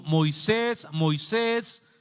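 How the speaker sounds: loud, sustained summons, climbing on the repeat; calling out. Acted. God calls Moses from the bush, loud calling out.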